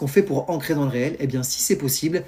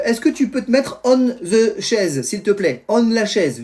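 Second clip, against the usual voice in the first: father instructing daughter; 5 semitones higher, slower than usual. Retold or imitated. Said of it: "Je lui dis comme ça".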